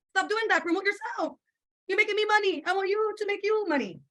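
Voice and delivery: high-pitched lecturing rant; scolding. Retold or imitated. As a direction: raise pitch, scold the team. Scolding her team, voice raised.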